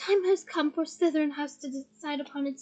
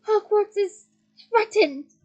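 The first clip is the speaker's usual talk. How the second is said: very loud, slow call; shouted; 5 semitones higher, 11 dB louder, much slower than usual. Acted. McGonagall rallies the statues, shouting. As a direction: ring it through the castle. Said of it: "shouted Professor McGonagall".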